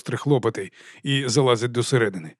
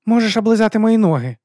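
put-on cheeky teen girl; 10 semitones higher, 6 dB louder than usual. Teen girl snaps at Frank.

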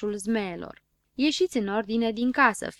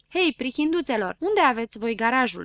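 calling out; 3 semitones higher, 4 dB louder than usual. Acted. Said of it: "strigă Șurubel".

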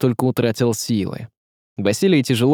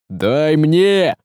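higher, insistent cry; urgent shout; 4 semitones higher, 3 dB louder than usual. A narrator's reading. Горыня demands his turn at the stubborn knife, urgent shout. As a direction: call out to take over. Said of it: "закричал Горыня".

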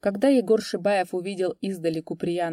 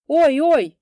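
crying out in pain; 9 semitones higher, 10 dB louder than usual. A narrator's reading. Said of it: "закричал Егор плачущим голосом".

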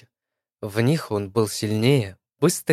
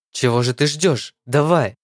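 raised voice; 3 semitones higher, 3 dB louder than usual. A narrator's reading. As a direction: voice rising to a shout. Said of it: "парень повысил голос".

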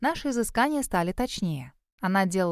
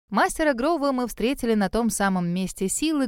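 plain reading voice

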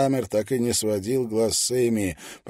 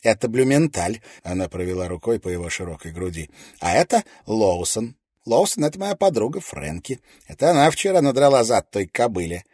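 put-on bubbly sorority girl; 2 semitones higher, 6 dB louder than usual. A narrator's reading. Julie bubbly introducing soldiers.

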